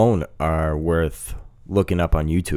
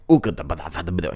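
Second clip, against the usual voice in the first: mock Russian gibberish; 3 semitones lower, 4 dB quieter, much faster than usual. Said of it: "is all like".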